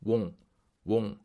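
"won't" ending in an ng sound, "wong"; ng-sound demo. Shown as a demonstration. Teacher reminding learners of the ieung sound, ng-ending "won't". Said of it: "이응 발음 잊지 마세요".

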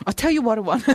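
hammed-up Shakespearean emotion; overdramatic Shakespearean line. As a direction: declaim it like a tragic actor. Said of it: "I don't think I can get any more emotional than that".

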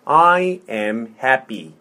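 slow, word by word; slow model. Shown as a demonstration. Teacher modelling "I am happy" for repetition, slowly. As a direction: space out each word for a learner. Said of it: "천천히. 자, 해볼게요".

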